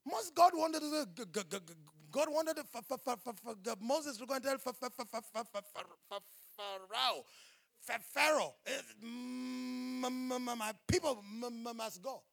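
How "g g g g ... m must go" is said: stammering Moses. Acted. Preacher mimics stammering Moses.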